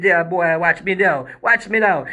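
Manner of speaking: put-on Jamaican accent, boastful call; imitated Jamaican. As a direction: mimic a Jamaican dancer calling for attention. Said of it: "he said some shit like that".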